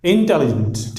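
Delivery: "इंटेलिजेंट" as in-TEL-jent, silent i; three-syllable intelligent. Shown as a demonstration. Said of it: "there are three syllables". ("इंटेलिजेंट" तीन syllable में, इन-टेल-जेंट)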